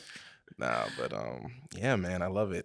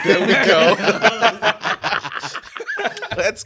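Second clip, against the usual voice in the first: hype cheer; 10 semitones higher, 13 dB louder than usual. Real, not acted. Hyping the guest's alias.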